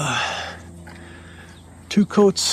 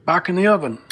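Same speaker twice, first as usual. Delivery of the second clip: ordinary delivery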